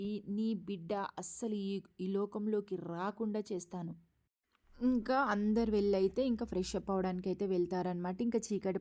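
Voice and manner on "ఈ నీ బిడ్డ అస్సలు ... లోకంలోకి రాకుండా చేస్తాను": slow, softer spiteful threat; spiteful vow. Retold or imitated. Jyotsna vowing against the unborn baby, slow and spiteful. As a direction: mutter a slow wicked vow. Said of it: "మూర్ఖంగా కుళ్ళు బుద్ధితో ఆలోచిస్తూ".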